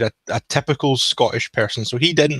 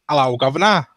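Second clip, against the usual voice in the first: put-on stereotyped English accent; 4 semitones higher, 3 dB louder than usual. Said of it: "traditional English accent".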